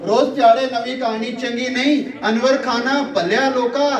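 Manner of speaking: measured mushaira recital, repeating lines for effect; poetry recitation. Acted. Poet reciting verse to a live audience, declaimed.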